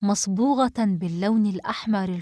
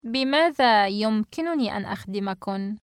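far-from-narrator voice with a sly smile. Acted. Hostess to the three silent girls, sly and smiling. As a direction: offer help with crafty politeness. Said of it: "باسمة بخبث".

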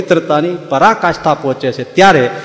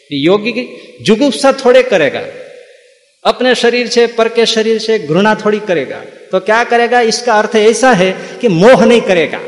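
higher mock sermon in Hindi; mocking the preachers; 4 semitones higher than usual. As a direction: parody their watered-down reading. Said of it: "આ લોકો સૂત્રનો અર્થ કરે છે".

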